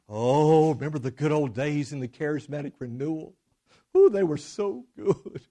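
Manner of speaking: mock nostalgia. Preacher imitating people pining for charismatic renewal, mock nostalgia. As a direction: sigh over the past, gently hammed up. Mocks nostalgia for old days.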